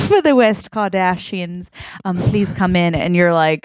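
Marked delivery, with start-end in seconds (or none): 0.1-1.7 put-on British butler voice; British butler accent. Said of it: "he's got a British accent". 2.2-3.0 polite British butler; British butler accent. Acted. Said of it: "he's got a British accent".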